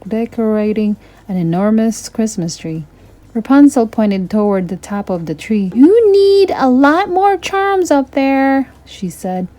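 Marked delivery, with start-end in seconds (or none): 5.8-8.7 high, youthful princess voice, a little wary; a sheltered girl recalling spooky Christmases; lightly voiced young princess; Rapunzel's voice. Rapunzel's voice in a read story.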